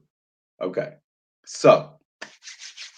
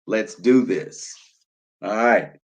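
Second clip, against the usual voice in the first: ordinary talk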